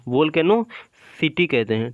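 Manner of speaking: वोल्केनोसिटी drawn out slowly, every syllable clear; slow down and lean on वोल्केनोसिटी to correct the class; वोल्केनोसिटी stretched slowly, set against वोल्केनो; stress on volcanosity. Shown as a demonstration. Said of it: "इससे वोल्केनो नहीं कहते".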